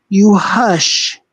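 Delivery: ordinary talk, nothing marked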